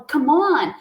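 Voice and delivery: "come on" said loud and punchy; urging command. Shown as a demonstration. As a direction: snap it out like a command. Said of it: "você dá um comando de ação". ("come on" como uma ordem animada)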